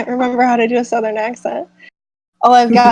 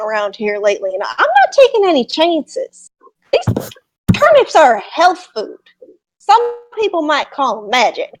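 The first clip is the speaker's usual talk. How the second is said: cagey farmer with a swooping Southern voice; 2 semitones higher than usual. Acted. Farmer telling adventurers of stirrings, cagey and defensive. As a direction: defend your wares, swooping pitch.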